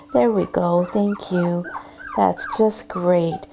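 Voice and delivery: gentle, unhurried praise. Shown as a demonstration. Breeder easing tension in the puppy's body, soft-voiced. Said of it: "do a little softer voice".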